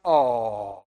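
mock cooing lady, drawn out and falling; a long, low "oh" of sympathy. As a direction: imitate a woman melting over a baby. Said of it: "Isn't that how ladies are?".

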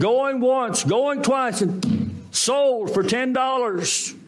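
high-pitched auctioneer closing a sale. Acted. Auctioneer to bidders closing the sale, high-pitched calling. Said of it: "the auctioneer said".

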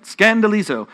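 Greek word in a Texan accent. Shown as a demonstration. Preacher sounding out a Greek word for the congregation, Texan accent. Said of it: "pronounce it in my Texan accent".

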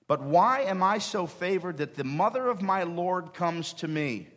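high, loud, slow wonder; awed exclamation. Acted. Preacher voicing Elizabeth's amazement, loud and high. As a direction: marvel out loud at the honor.

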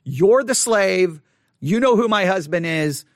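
a touch of a commanding mistress; demanding. Shown as a demonstration. Preacher demoing Potiphar's wife as mildly demanding. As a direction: lay down the order to the slave. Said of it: "in a very demanding way".

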